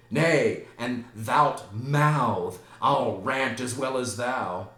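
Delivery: loud, drawn-out theatrical boast; defiant rant. Acted. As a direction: finish the tirade with a loud flourish. Hamlet finishes his rant.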